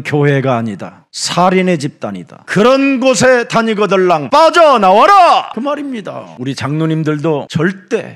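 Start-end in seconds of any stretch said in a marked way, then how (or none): 2.5-5.5 high preacher's cry, surging at the end; forceful command. Acted. Preacher ordering listeners out of such churches, forceful command. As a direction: call them out urgently.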